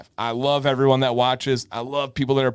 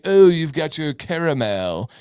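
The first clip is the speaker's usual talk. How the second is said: mock fancy; 2 semitones higher, 4 dB louder than usual. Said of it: "when you're mocking fanciness".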